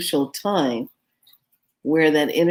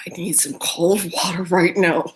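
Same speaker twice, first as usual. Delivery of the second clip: whispered plea for water; hoarse urgent whisper, mouth on fire; desperate whisper. Retold or imitated. Begging friends for water as the heat hits, desperate whisper. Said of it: "And I'm like".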